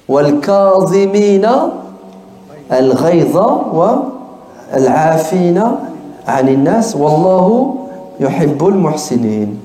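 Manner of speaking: fast, chanted Arabic verse; Quran recitation. Acted.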